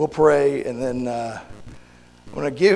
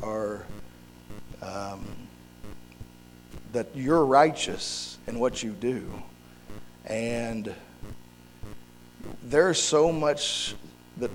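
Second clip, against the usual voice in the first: softer, unhurried praying voice; prayer; 3 semitones lower, 7 dB quieter than usual. Real, not acted. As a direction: pray earnestly, easing down from preaching. Leads a prayer.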